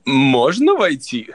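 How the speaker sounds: native Russian. Shown as a demonstration. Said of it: "Say in Russian".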